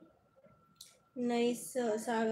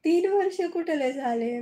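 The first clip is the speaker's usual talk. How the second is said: plain louder; 4 semitones higher, 6 dB louder than usual. Real, not acted. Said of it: "repeats the question".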